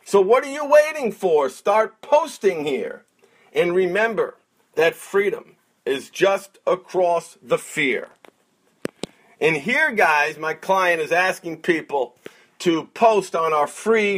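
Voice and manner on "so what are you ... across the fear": rhythmic spoken word recital; slam poet. Acted. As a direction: perform it like a slam poem. Recites client's poem.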